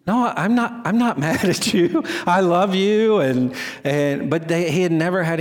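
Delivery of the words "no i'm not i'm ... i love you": retold reassurance. Coach reassuring an upset boy.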